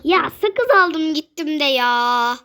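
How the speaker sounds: talking while chewing gum; words round a wad of gum. Real, not acted. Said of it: "Sakız çiğniyorum ben".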